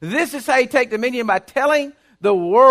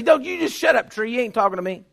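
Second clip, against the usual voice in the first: scolding the tree. Retold or imitated. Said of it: "I say".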